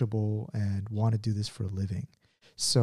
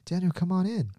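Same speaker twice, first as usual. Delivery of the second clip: mock grandma; 8 semitones higher than usual. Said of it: "She's like".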